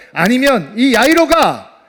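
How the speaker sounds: normal talking voice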